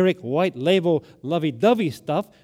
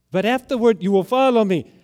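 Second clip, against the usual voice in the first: firm and louder; 3 semitones higher, 4 dB louder than usual. Shown as a demonstration. Preacher restating Jesus's promise, firm and louder. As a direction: say it out firmly this time.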